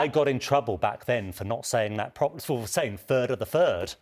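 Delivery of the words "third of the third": "third" said as "furd", both times. Shown as a demonstration. Presenter recalling old speech trouble, "third" with F for TH. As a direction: swap the TH in "third" for an F. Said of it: "didn't used to make T Hs properly".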